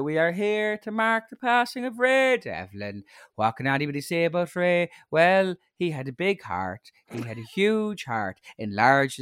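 lightly voiced pompous priest eulogy; priest's eulogy. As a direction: priest eulogising a stranger, mock solemn. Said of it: "it's always that".

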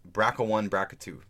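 BRCA said as one word, "BRACK-uh"; acronym as word. Shown as a demonstration. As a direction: say "brca" as two syllables, BRACK-uh. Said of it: "This is how we usually pronounce it".

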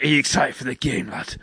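failed film-star accent attempt, slipping towards northern British; a lightly put-on, botched regional accent; Dave Bautista. Retrying the film dad's line for co-host, poorly imitated accent. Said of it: "the Dave Bautista voice, and I can't do it".

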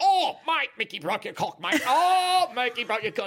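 high, loud crowing taunt; Brendan Burns. Retold or imitated. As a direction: whoop the news out, big rising 'oh'. Brendan's delighted outburst retold.

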